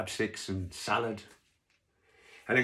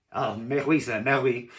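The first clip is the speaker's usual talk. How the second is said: obliging French waiter, a bit louder; French waiter accent; 2 semitones higher, 5 dB louder than usual. Acted. Waiter agrees with diner, in a French accent. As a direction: answer as a stock French waiter. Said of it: "'cause he was French".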